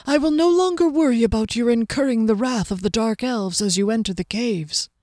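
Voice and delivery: lightly voiced swordsman, gently teasing; twinkling Soren. Host reassuring departing guest about the caves, lightly playful.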